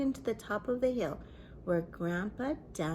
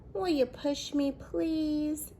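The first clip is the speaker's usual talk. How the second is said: put-on higher, louder little girl begging; 5 semitones higher, 4 dB louder than usual. A narrator's reading. Girl begs grandpa to push her, higher and louder. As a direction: beg sweetly for a push. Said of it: "Nikki begged".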